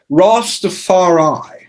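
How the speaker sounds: stretched slow mock Rasta call. Imitating reggae writer, slow stretched mock Rasta call. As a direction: drawl it out like a Rasta. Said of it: "he's that kind of guy".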